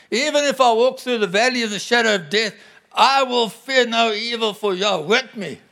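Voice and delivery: triumphant scripture declaration; bold declaration. Acted. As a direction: proclaim the psalm with conviction. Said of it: "It's declaration".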